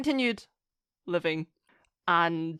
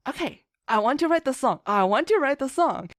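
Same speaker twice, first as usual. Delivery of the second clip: fast, louder eager insistence; eager resolve; 4 semitones higher, 4 dB louder, faster than usual. Retold or imitated. Writer recalling her urge to write, eagerly. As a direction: push it out like you can't wait. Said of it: "I was like".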